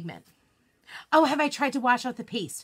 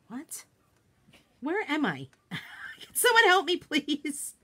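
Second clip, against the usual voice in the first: mock lost; 4 semitones higher, slower than usual. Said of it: "It's not a trap door".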